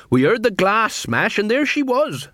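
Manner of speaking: high, drawn-out beggar woman; beggar queen. Acted. Beggar queen tells the watch of the death, high voice. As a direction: report it in her high-pitched voice.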